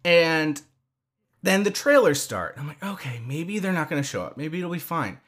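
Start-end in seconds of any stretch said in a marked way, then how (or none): 2.8-5.2 softer, quicker thinking aloud; retold hushed hopeful thought; hopeful self-reassurance. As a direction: quietly reassure yourself, as retold.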